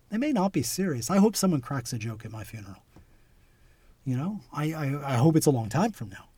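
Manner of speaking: ordinary delivery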